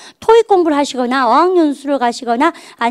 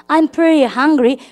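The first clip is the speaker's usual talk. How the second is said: slow model sentence; much slower than usual. Shown as a demonstration. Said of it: "해보세요".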